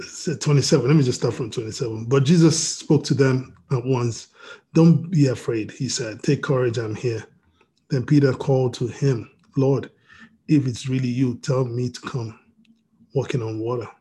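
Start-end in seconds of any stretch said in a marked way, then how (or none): 2.0-13.9 steady Bible reading voice; deliberate scripture read. Acted. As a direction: read it out to the congregation. Rereads scripture passage.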